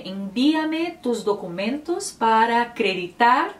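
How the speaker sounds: a native-sounding Spanish line; Spanish example. Shown as a demonstration. Teacher quoting a typical Spanish phrase to viewers, Spanish accent. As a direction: read the sentence in a Spanish accent. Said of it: "pra você".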